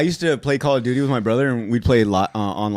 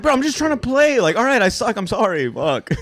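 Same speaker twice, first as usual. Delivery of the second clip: exasperated; 6 semitones higher than usual. Retold or imitated. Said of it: "to where I'm like".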